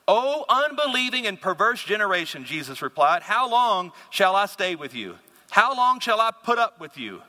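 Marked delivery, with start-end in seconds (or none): 0.1-2.4 mildly exasperated rebuke, raised pitch; a little aggravated. Acted. Jesus to the crowd, mildly aggravated. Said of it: "Jesus is a little aggravated here". 3.2-7.2 exasperated, with leaning emphasis; a little aggravated. Acted. Jesus fed up with the generation, mildly aggravated. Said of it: "Jesus is a little aggravated here".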